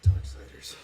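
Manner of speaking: dramatic whispered title; breathy, drawn-out game name; odd delivery. Real, not acted. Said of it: "Why you say it like that?".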